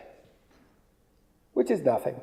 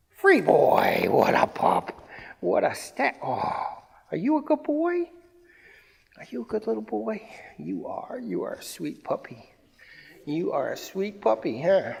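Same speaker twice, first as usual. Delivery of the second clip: doting puppy talk. Real, not acted. Trainer to puppy after a good stay, doting baby talk.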